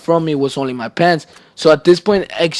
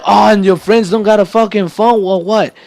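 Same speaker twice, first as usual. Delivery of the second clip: louder and higher, imitating dad's sarcastic yell; mock angry yell; 5 semitones higher, 4 dB louder than usual. Son imitating his dad mocking his excuse, loud mock yell. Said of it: "screaming at me".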